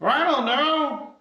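high, distant, unsure voice; far-off high voice from the tower; voice from upstairs. Acted. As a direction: answer from far above, clueless. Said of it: "you hear from upstairs".

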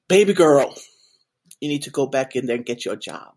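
playful impression of an avuncular board member urging her on; Steve Harvey. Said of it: "didn't really sound like Steve Harvey".

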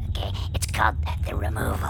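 whisper. Acted. Whispered title announcement.

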